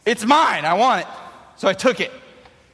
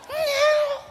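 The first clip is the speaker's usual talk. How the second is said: very high squeaky refusal; little brother. Retold or imitated. Little brother refusing, very high squeak. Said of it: "he's like".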